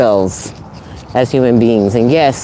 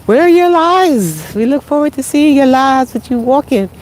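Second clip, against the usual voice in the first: high mock fan voice; 12 semitones higher than usual. Fans asking about her live streams in a high mock voice. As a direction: squeal it like an eager fan. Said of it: "people are like".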